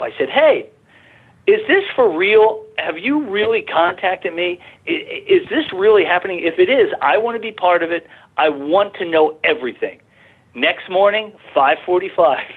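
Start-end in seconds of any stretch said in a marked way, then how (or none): 0.3-10.0 pleading call to the sky. Retold or imitated. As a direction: call up, half begging, near tears. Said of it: "and I yelled up".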